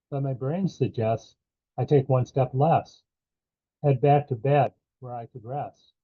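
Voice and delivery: measured poetry recital in short phrases; poem reading. Acted. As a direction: read verse line by line, pausing after each. Reads his own poem aloud.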